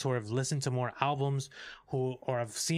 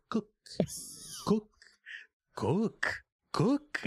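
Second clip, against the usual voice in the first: repeated chef command; 13 semitones higher, much slower than usual. Retold or imitated. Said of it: "he just says "cook" like ten times".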